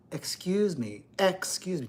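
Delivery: soft, clear, polite excuse me; crisp and polite. Shown as a demonstration. The speaker showing the correct greeting, soft and crisp. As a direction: say it cleanly and courteously. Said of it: "Don't be lazy. Don't slur your speech".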